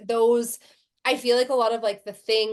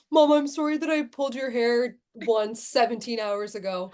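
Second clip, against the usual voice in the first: put-on 1 apologetic little boy.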